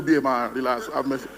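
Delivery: low, hushed calming voice; the marriage covenant calming the angry husband, low and hushed; soft inner counsel. Acted. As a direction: talk yourself down gently. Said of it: "the covenant will tell you".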